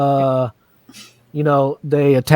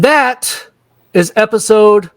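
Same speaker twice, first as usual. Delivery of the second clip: dramatic sign-off; much slower than usual. Real, not acted.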